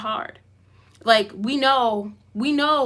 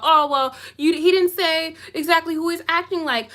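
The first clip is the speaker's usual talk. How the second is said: raised-pitch mocking imitation; mocking excuse-makers; 5 semitones higher than usual. Quoting people who defend him, mockingly. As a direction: mimic people playing dumb.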